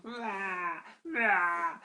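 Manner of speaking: a light mock wail, rah rah; imitated crying. Goblin imitating the pixie's crying, mock wail. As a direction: copy the pixie's crying, half-hearted. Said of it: "like that".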